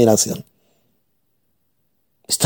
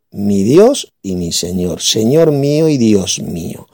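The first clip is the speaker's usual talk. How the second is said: slow, solemn words of faith; reverent confession; 5 semitones lower, slower than usual. Retold or imitated. Reading Thomas's words as a slow, solemn confession. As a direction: say it slowly like a confession to Jesus. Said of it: "¿Y cómo le llama?".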